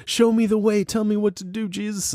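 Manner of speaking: mock pleading prayer. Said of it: "when he's saying".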